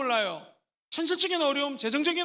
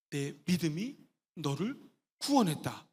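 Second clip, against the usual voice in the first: quiet Jesus voice; 8 semitones lower, 6 dB quieter than usual. Acted.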